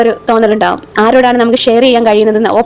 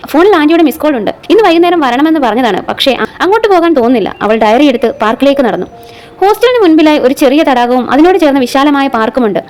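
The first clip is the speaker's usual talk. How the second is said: measured audio-story reading with lightly voiced dialogue; story narration. A narrator's reading. Reads an episodic story aloud. (കഥ വായിച്ചു പറയുന്ന ശൈലി)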